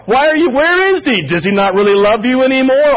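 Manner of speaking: scoffing at David's faith; mocking enemies. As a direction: sneer it like a mocking adversary. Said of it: "They're making fun of me".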